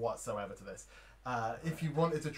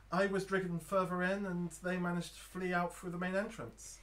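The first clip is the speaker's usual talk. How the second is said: lightly pitched-up woman traveller; female voice; 4 semitones higher than usual. Acted. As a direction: tell your story as a stranded woman. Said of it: "It's a female voice".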